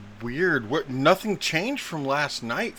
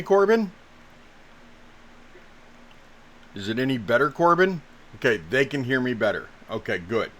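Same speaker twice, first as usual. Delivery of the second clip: muffled bad mic; muffled, like underwater; 5 dB louder than usual. Real, not acted. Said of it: "you sound like you're underwater for us".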